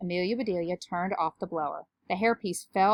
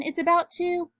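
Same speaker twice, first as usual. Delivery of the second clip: high-pitched hurried warning; urgent yell; 10 semitones higher, 3 dB louder than usual. A narrator's reading. Jason warning of an eruption, high yell. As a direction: cry out a warning, cut off. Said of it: "yelled Jason".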